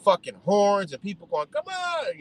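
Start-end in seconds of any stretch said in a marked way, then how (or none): 1.5-2.2 mock yell. People yelling at the crash, mock high yell. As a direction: imitate an impatient driver's yell at held-back volume. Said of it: "you know, yelling and shit".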